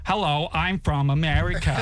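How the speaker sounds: slow, deliberately unconvincing American accent; slightly put-on American, words drawn out; badly faked American accent. Shown as a demonstration. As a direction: attempt a careful American accent, half-joking. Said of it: "pretend to do a really good one".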